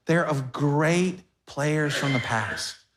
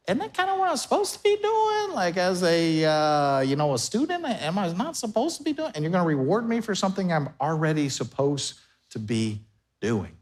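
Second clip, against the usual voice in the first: incredulous listener. Retold or imitated. Pastor voices skeptical listener.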